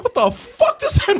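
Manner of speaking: high, incredulous mock question; baffled. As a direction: sound stunned by the line.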